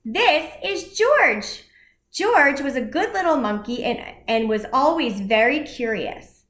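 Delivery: put-on lively read-aloud for children; animated picture-book reading; story narration.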